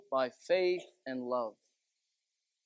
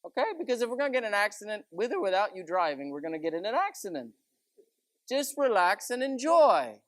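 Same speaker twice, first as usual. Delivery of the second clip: reassuring; 4 semitones higher than usual. Retold or imitated. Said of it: "I always tell her".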